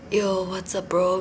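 lightly imitated low-voiced surfer dude. Shown as a demonstration. Podcaster showing listeners the surfer English they love, low surfer voice. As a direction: put on a slightly low, easygoing surfer bro voice. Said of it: "こんな感じの低い声で".

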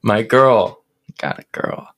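slow mock poem reading; poem recital. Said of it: "can I read you a poem".

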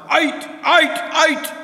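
loud high shout. Acted. Mister Mean shouting at the wise man to get out. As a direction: throw him out with a yell. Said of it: "Mister Mean shouted at the man".

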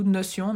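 "Notion" said the French way, no-syon; French pronunciation. Shown as a demonstration. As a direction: say "Notion" as French, nasal "-on" ending. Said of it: "un peu à la française". (« Notion » prononcé à la française, « no-sion »)

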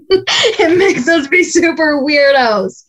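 said through a light laugh. Real, not acted. Coach laughing to her students about being weird on calls. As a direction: chuckle at how silly we get.

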